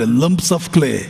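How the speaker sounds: each phrase drawn out very slowly; slow solemn quote. Retold or imitated. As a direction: weigh every word like a verdict. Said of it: "ಅಂತಾರೆ". (ನಿಧಾನವಾದ ಗಂಭೀರ ಉಲ್ಲೇಖ)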